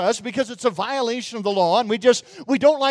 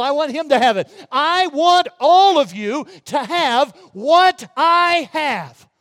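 building, louder fervent appeal; voicing Paul to Agrippa; 3 semitones higher, 4 dB louder than usual. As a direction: sweep the room, growing to a cry. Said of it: "He said".

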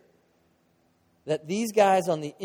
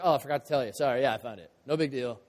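offhand shrug; 5 semitones lower, faster than usual. Pretend. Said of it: "You don't like".

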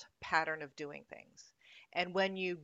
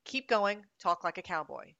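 loud, urgent coaching call; 4 dB louder than usual. Shown as a demonstration. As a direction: call it out to push them on. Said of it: "then we throw out different genres".

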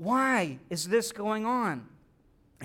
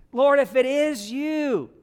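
louder, higher call across the storm; Peter calling out; 4 semitones higher, 5 dB louder, slower than usual. Acted. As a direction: shout it over the wind.

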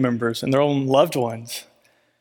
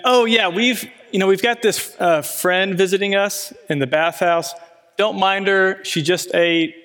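quoting the ranch director; 4 semitones higher than usual. Retold or imitated. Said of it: "I'm not gonna say it in an Australian accent".

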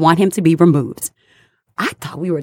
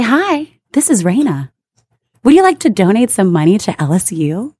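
sunny telemarketer pitch, pitched up; cheerful phone pitch voice. Retold or imitated.

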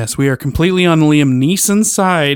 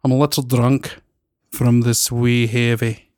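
slow, mild attempt at Scottish; a weak Scottish accent, drawn out; slower than usual. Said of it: "Here's my Scottish".

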